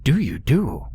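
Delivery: put-on little gnarled old imp, scratchy and high; scratchy high-pitched creature. A narrator's reading. Gnarled little man greets frightened couple, scratchy high-pitched voice. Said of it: "it said in a scratchy, high-pitched voice".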